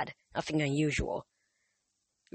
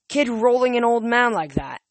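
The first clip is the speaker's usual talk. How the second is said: outraged; 6 semitones higher, 5 dB louder than usual. Acted. Homeless guy keeps yelling.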